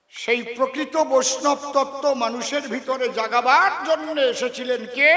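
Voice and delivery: building from a half-sung line to a loud, high cry of Hari বল; rising preaching call. Real, not acted. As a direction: swell into a full-throated devotional shout. Sermon climax calling Hari bol. (ভক্তিতে উঁচু গলায় ক্রমশ চড়ে ওঠা আহ্বান)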